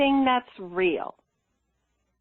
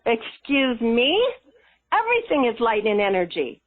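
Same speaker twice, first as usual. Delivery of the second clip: mock indignant; 2 semitones higher than usual. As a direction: act out challenging what you were told. Retelling an argument with guides.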